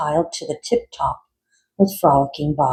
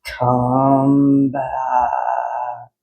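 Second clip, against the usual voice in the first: calling out. Acted. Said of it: "called Frankenfrog".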